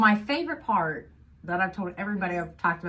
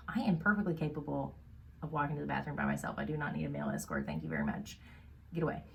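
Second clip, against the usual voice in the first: indignant; 5 semitones lower, 9 dB quieter, faster than usual. Retold or imitated. Heroine quoted, annoyed.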